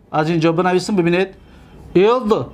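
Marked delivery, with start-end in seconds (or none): 1.9-2.4 syllable-by-syllable dictation. Shown as a demonstration. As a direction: sound it out as if writing it. Teacher dictating while writing.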